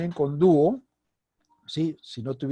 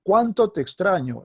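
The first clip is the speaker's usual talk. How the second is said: higher, louder "Cuánto" launching the exclamation; exclamatory emphasis; 4 semitones higher, 6 dB louder than usual. Shown as a demonstration. Teacher demonstrating an exclamation, emphasis on "Cuánto". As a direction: punch "Cuánto" high and loud, then ease down. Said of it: "Estoy dándole énfasis con mi voz".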